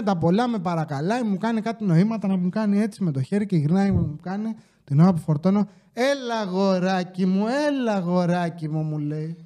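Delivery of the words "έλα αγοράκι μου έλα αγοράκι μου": condescending. Retold or imitated. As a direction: talk down to him like a little boy. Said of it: "υποτιμητικά".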